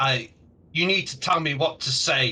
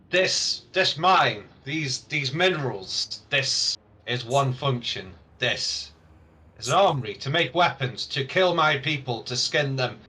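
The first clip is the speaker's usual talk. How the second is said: orc accusing, phrase by phrase; emphatic orc speech with punched key words; aggrieved orc leader. Acted. Orc accuses the mine owners of arming killers, emphatic.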